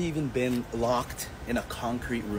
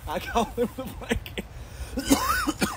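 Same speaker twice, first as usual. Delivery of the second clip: mocking sing-song; 8 semitones higher, much slower than usual. Repeats the taunt mockingly.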